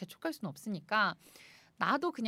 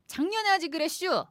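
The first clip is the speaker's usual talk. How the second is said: Chungcheong dialect; 6 semitones higher, 6 dB louder than usual. Acted. Dialect punchline.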